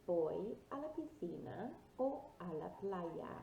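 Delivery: careful teacher's model of "Voy a la piscina o a la playa"; model pronunciation. Shown as a demonstration. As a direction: say "Voy a la piscina o a la playa" clearly for learners to repeat. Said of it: "Repeat after me".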